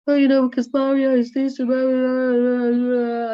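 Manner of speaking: mother mocking her crying daughter, fast and high. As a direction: parody the teen's complaint. Mother mimics daughter's complaint.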